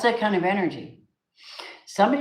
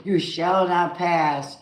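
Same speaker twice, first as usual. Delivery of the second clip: mock wizard decree; 4 dB louder, slower than usual. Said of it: "Hold the master wand up and go".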